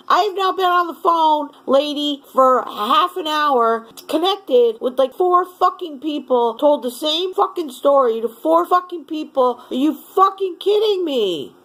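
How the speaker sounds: heated rant. Real, not acted. Ranting at agent, still heated.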